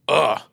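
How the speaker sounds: loud mock "ugh"; imitated disgusted groan. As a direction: groan like an appalled stranger. Mimics heckler's noise heard over music.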